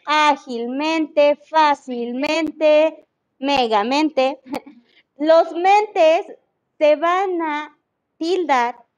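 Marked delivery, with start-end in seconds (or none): 0.1-1.3 Ágilmente said slowly and evenly, no rise; slow example. Shown as a demonstration. Teacher repeating the example to the class, slow and level. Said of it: "muchas palabras que terminan en mente". 1.3-4.4 fácilmente drawn out slowly, every syllable clear; slow example. Shown as a demonstration. Teacher listing -mente words to students, slowly. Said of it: "palabras que terminan en mente".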